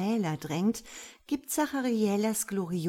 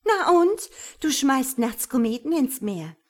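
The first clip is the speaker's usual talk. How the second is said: high, loud defiant retort; bilious counter-accusation; venomous; 6 semitones higher, 8 dB louder than usual. Acted. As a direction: spit it back with spite. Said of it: "spuckt Gift und Galle".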